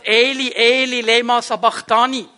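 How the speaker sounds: Jesu Schrei am Kreuz, lauter als die Rede. Acted. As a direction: ruf es laut hinaus, verzweifelt. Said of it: "schrie Jesus laut". (Jesus schreit am Kreuz zu Gott, laut und verzweifelt)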